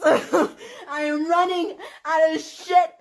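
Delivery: slow, laughing and crying; broken laugh. Real, not acted. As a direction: laugh it out with tears. Laughing through tears.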